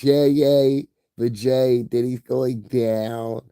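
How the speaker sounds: high, loud giddy mimic; mocking cheering girls. Mocking girls cheering online, high and giddy. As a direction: squeal it like gloating girls. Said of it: "saying all the little chicks".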